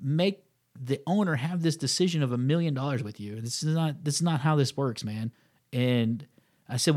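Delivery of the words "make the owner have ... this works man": cynical retort. Retold or imitated. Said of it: "me and my cynical way".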